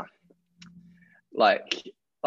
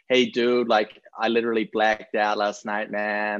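lightly voiced American college dude, mildly drawn out at the end; a hint of a party-boy American accent, nothing heavy; American bro accent. Rugby player obliging a request for an American accent, lightly done. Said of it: "give us your best Boston or American accent".

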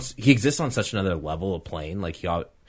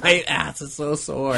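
whiny corpse voice; 8 semitones higher, 4 dB louder, slower than usual. Pretend. Voicing the corpse Emperor.

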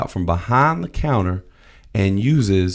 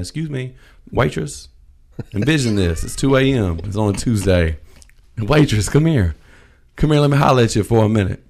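loud, higher customer calling the waitress over; louder and louder calls to the waitress, high and impatient; 4 semitones higher, 3 dB louder than usual. Retold or imitated. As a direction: holler for the waitress across the diner. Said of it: "I'm assuming that's how you talk".

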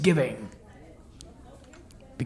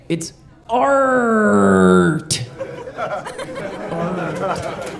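laughing punchline; much slower than usual. Acted.

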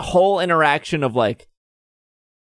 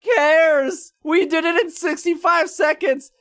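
much higher, far-off exasperated voice; fed up, pitched way up; exasperated rant; 14 semitones higher than usual. Real, not acted. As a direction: rant in disbelief at the pettiness. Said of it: "everything I hate about Pokemon Go".

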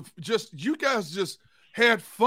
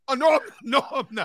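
mock panicked denial; 7 semitones higher than usual.

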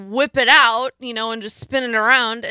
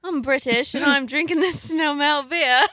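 put-on British accent, slightly raised; 3 semitones higher than usual. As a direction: do a playful mock British accent. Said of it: "Do a British accent".

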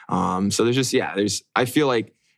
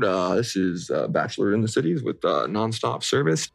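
pilot announcement. Acted. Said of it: "You just gotta do your pilot".

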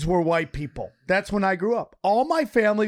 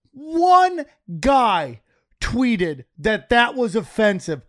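usual speaking voice

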